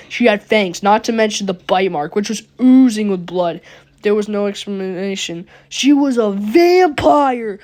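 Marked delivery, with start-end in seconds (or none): 5.7-7.6 surprised reveal. Real, not acted.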